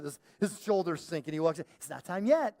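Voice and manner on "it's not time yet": bright, chipper and louder; perky. Shown as a demonstration. Telling the dog to wait, all perky. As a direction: sing it out cheerfully. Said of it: "I say it all perky".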